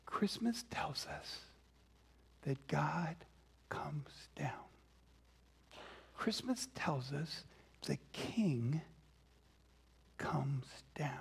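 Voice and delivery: soft, measured proclamation with pauses; quiet, solemn awe; hushed reverence. Real, not acted. Preacher softly repeats the central message.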